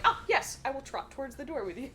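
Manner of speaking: high, prim dog voice; polite dog voice. Retold or imitated. Gimli agreeing to go pee with his owner, prim and high. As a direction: answer like a proper little gentleman dog. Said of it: "he'll be like".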